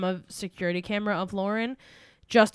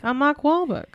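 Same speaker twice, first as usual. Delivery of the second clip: higher-pitched, put-on Boston accent; hammed-up Boston accent impression; Mark Wahlberg; 5 semitones higher than usual. Showing her only Boston line, joking Boston accent. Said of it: "only thing I can do is if I'm like".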